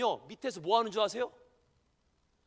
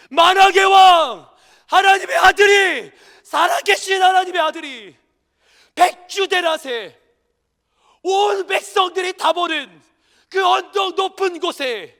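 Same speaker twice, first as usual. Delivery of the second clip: much louder slow proclamation; climactic preaching; 8 semitones higher, 14 dB louder than usual. Acted. Pastor preaching Christ's shame to the congregation, thundering. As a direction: build it to a thundering peak.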